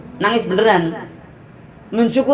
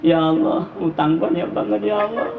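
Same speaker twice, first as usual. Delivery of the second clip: mock weeping prayer; 3 dB quieter than usual.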